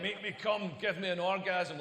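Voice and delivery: gruff mock Scottish man; lightly voiced Scottish bloke. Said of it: "she sounds like a Scottish man".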